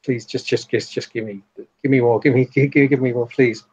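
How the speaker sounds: stammered, repetitive pleading; desperate begging. Acted. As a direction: beg in broken, hurried little bursts.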